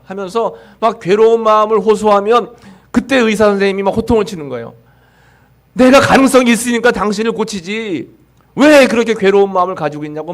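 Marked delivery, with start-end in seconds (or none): 5.7-10.3 imitating a doctor scolding patients, higher-pitched; a mock stern rebuke to a despairing patient; retold scolding. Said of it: "막 호통을 치는 겁니다".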